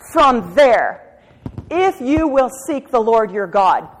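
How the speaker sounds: fervent pleading preaching; emphatic repetition. Real, not acted. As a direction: drive the phrase home. Preaching the verse.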